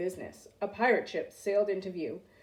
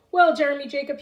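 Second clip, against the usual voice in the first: louder pirate captain greeting; 5 semitones higher, 7 dB louder than usual. A narrator's reading. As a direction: address the boy grandly. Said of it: "he said".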